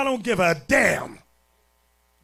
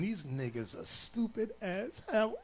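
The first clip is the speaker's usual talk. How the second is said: much softer, sly under-the-breath scorn; sly aside; 3 semitones lower, 12 dB quieter than usual. Retold or imitated. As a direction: voice her hidden sneer behind tears. Crying woman's secret thought voiced.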